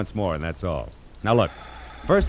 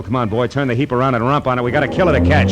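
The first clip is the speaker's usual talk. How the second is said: louder, pressing the driver to floor it; urgent loud command; 3 semitones higher, 6 dB louder than usual. Acted. Detective urging the driver to race to the plane, loud and urgent. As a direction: bark it out, no time to lose.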